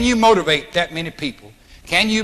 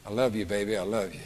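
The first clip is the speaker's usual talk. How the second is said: soft tender; 9 semitones lower, 12 dB quieter, faster than usual. Shown as a demonstration. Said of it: "gotta be able to talk with authority".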